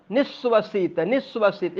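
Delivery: निःश्वसित said as one joined word; निःश्वसित in one breath; pronunciation demo. Shown as a demonstration. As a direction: run निःश्वसित together, no break after निस्व. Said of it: "एकदम साथ में निःश्वसित बोलिए".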